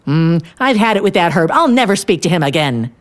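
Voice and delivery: mildly acted indignant vow; touch of outraged finality; fuming. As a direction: declare it in a story-time huff. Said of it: "I'm fuming".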